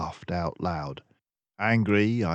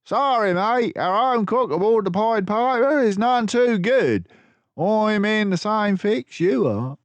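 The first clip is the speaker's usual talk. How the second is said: louder, higher salty captain voice; Basil as a sea captain; 5 dB louder than usual. A narrator's reading. Disguised Basil answering the thugs as a salty captain. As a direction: play the gruff captain, friendly to the thugs.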